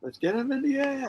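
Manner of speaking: high breathless whisper. Pretend. Whispered movie quote.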